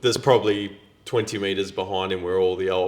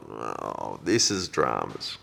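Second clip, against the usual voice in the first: dismayed mutter; 5 semitones lower, 5 dB quieter, slower than usual. Retold or imitated. Dismayed inner reaction.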